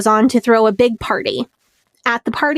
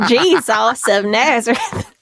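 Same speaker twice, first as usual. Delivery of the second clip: put-on Southern accent; slower than usual. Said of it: "They're all so Southern".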